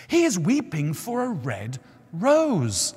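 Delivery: lightly voiced bird, slow; gentle nightingale. A narrator's reading.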